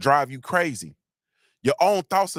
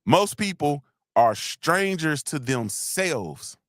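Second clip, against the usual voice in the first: slow dictation; much slower than usual. Shown as a demonstration. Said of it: "Y'all might wanna write that one down".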